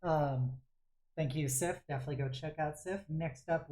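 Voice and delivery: ordinary talk, nothing marked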